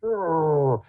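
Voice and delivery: a lightly voiced bear roar; hint of a bear roaring; mock roar. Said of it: "the bear goes".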